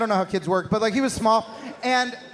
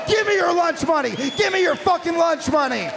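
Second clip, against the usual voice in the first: mock bully teacher; 4 semitones higher than usual. Armed teacher robbing kids.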